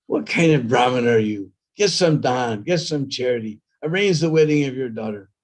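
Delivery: a touch of a sharp-tongued wife berating her husband; nagging wife. Acted. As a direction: nag him like a cutting wife. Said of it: "tongue was like a razor blade".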